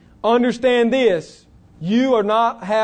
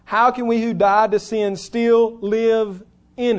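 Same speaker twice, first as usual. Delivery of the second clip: slow read quote. Shown as a demonstration. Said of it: "notice the text".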